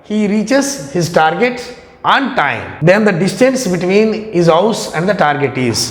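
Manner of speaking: slow, careful reading of the question; reading aloud. Acted. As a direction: read each word out slowly. Reads the exam question aloud.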